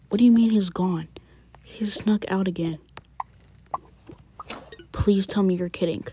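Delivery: urgent hushed disbelief; alarmed whisper. Acted. Parent learning the son snuck out, tense whisper. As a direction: whisper it, shocked, not waking anyone.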